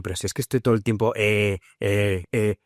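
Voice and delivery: light parody of herself stuck on eh, eh; mocking her own fillers. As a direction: laugh at her old hesitant self. (parodia ligera de sus muletillas)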